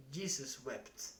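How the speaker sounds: quiet, slow, defeated sigh of words; quiet exasperated father, slowly; weary exasperation. Acted. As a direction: say it low and drained, at the end of his rope. Father, head in hand, exasperated.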